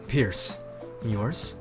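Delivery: low, brief reply; low character voice; deep-voiced Pierce. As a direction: drop the pitch for Pierce. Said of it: "how deep the guy's voice is".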